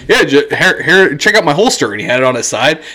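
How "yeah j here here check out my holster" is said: raised-pitch voice imitating a friend; Chris. Friend showing off his holster, mocking imitation. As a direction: put on a friend's eager little voice. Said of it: "I love your Chris voice".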